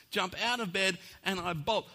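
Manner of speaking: ordinary talk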